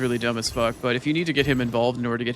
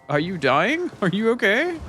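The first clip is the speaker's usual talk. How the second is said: higher, louder mock baby talk; pet talk; 8 semitones higher, 4 dB louder, slower than usual. Streamer retelling her cooing at the howling cat. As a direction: replay the coo to the cat. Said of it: "I'm like".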